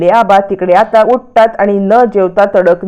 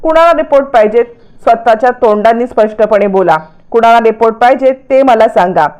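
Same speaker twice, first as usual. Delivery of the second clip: angry grandfather. Acted. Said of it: "आबा आता चिडूनच उठतात".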